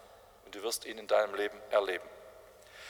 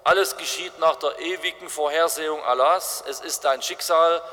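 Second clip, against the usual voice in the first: louder, raised stern rebuke; Mohammed rebuking; 3 semitones higher, 4 dB louder than usual. Mohammed tells the screaming man in the pit to stop, stern. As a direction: hush him with lofty authority. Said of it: "Der sagt".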